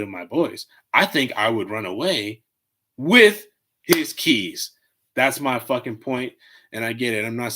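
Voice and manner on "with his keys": drawn-out slow tease; playful punchline. Acted. Teasing punchline said slowly to the audience. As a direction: stretch it out for the joke. Joke punchline, run away.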